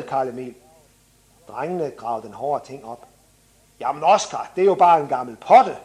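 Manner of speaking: put-on animated children's book narration; story reading. A narrator's reading. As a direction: read a children's story with lively dialogue. Reads from children's book aloud.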